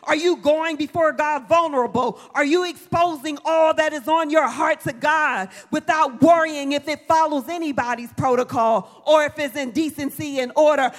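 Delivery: building, forceful sermon delivery; preaching. Acted. Preacher urges congregation to pray vulnerable before God, forceful preaching. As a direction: press each question on the congregation.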